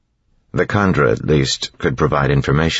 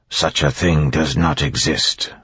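firm; 2 semitones higher than usual. Acted. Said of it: "Orsur said firmly".

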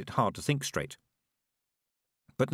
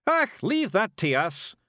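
high, loud Scottish pixie shout; 10 semitones higher, 4 dB louder, slower than usual. A narrator's reading. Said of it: "shouted Rob Anybody".

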